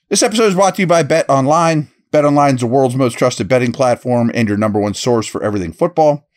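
steady, energetic advertising delivery; ad read. Real, not acted. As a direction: read it as a podcast promo, punching the brand. Reads a sponsor ad.

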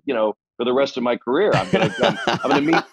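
chuckling as the words come out; real laughter bubbling under the words; laughing through it. Real, not acted. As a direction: laugh through the dream of easy success. Laughing while recalling naive hopes.

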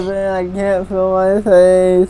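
slurred numb speech; after wisdom teeth. Real, not acted. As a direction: talk through numb lips. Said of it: "He can't talk 'cause his lips are numb".

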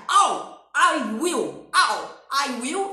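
loud clipped barks, I'll and I will; barked drill. Shown as a demonstration. Teacher barks the will forms for students to repeat. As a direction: snap each form out loud. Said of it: "tem que dar uma latida".

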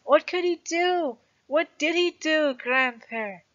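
put-on boy eagerly pressing his grandfather for the ending; eager child. A narrator's reading. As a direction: bounce up, desperate to know. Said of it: "repeated eagerly".

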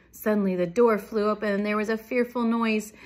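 lively picture-book reading; dramatic story read-aloud. A narrator's reading. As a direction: project the narration to young listeners. Reads a story to children.

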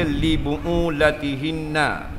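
slow, careful recitation of the verse; quoted Quranic phrase. Real, not acted. Preacher citing the verse to his congregation, recited slowly. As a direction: give the Arabic words their weight. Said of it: "Pasal Allah kata".

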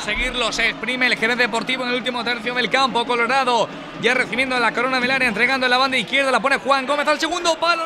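excited commentary. Real, not acted. Attack in live commentary.

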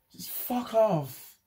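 real frustrated yell at everything going wrong; furious outburst. Real, not acted. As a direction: let the rage burst out, slowly. Furious outburst at bad luck.

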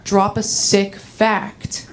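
easy, reassuring pep talk to oneself; calming self-talk. Acted. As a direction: talk yourself down from anxiety. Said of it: "I try to calm myself down".

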